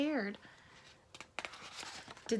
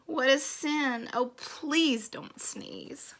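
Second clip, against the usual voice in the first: lilting rhymed storybook reading; story read to children. Acted. Bees complain of the last sneeze, storybook reading. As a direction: read the rhyme aloud with playful weight on each beat.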